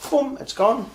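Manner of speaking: bright pop up high on the reveal; excited reveal. Real, not acted. Magician to viewers, revealing the vanish with an excited pop. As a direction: sell the vanish like a magician's flourish.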